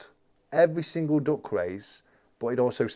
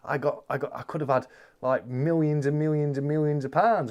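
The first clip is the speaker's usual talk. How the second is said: ordinary talk, nothing marked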